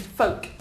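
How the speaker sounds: "Folk" pronounced without the L; silent L. Shown as a demonstration. Teacher asks students to repeat, "Folk" with silent L. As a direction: drop the L entirely in "Folk". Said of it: "The L is silent".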